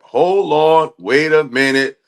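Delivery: sudden high, loud hold on; real surprise at a donation; surprised. Real, not acted. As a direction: stop short, caught off guard. Sudden excited reaction to donation.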